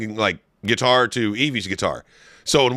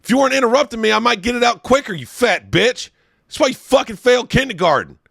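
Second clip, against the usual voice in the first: high, loud mock-furious tirade; mock rant; 9 semitones higher, 3 dB louder than usual. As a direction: tear into your friend in a hammed-up rage. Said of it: "That was great".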